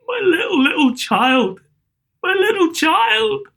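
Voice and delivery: put-on very high, slow, voice cracking on my little child; father breaking down over his dead son. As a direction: let the grief break through. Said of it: "He broke down all at once".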